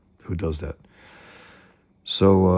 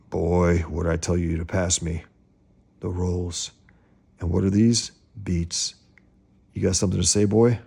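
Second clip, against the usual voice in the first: a mock-stern scolding, rising at the end; nagging father. Father scolding Chucky at the dinner table, mock-stern. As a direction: needle the boy about the rolls. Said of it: "father scolding son".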